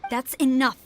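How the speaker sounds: stern rebuke. Acted. Commander cuts off excuses.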